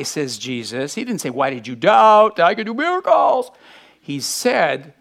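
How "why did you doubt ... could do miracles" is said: tag. Retold or imitated. Mock version of Jesus' question.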